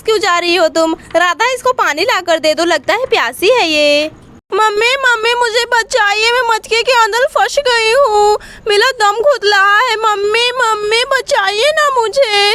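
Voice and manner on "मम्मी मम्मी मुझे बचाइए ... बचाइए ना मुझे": put-on tearful little girl calling mummy; frightened child voice; trapped child pleading. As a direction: beg to be rescued, close to crying. Child trapped in pot calling mum.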